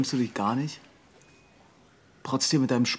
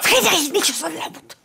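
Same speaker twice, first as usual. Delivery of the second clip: shout; 14 semitones higher, 6 dB louder, much slower than usual. Acted. Son shouts back at father.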